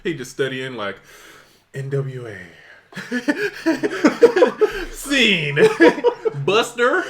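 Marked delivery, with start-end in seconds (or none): 1.7-7.0 hammed-up LA accent. Host imitating a London actor studying, mock LA accent. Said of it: "that is an L A accent".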